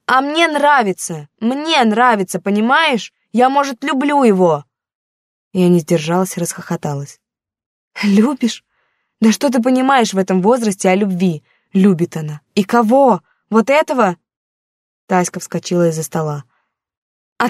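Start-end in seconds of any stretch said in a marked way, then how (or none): 0.1-4.7 put-on higher, louder defiant teenage girl; a hurt daughter pushing back at her mother; teen daughter, defensive. Daughter defending her boyfriend to her mother, defiant and higher. 8.0-14.2 louder mocking scorn; scornful anger. Mother ridiculing her daughter's love, louder and scornful.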